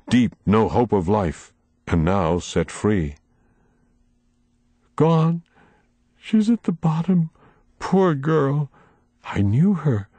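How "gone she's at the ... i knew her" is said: voice come out of the sea. A narrator's reading. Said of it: "the voice of someone come out of the sea after no air".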